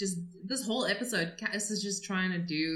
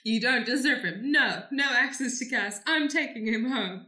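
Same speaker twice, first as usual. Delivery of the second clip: mock rescue rant; 4 semitones higher, 4 dB louder than usual. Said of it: "mock rescue rant".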